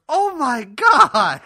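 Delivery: very slow, loud, high mock wail; hammed-up horror, dragging out each word; imitated appalled grandmother. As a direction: imitate grandma aghast at a stink. Grandmother reacts to smell again.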